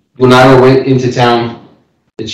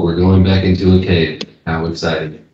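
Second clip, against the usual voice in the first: monotone; 5 semitones lower than usual. Acted. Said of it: "Just shows no emotion".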